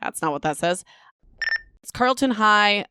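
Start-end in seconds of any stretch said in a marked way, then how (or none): 1.8-2.8 oddly drawn out. Real, not acted. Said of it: "why did I say it like that?".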